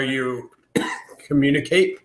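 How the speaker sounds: coughing mid-sentence; choking on an ice cube. Real, not acted. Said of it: "I just choked on one".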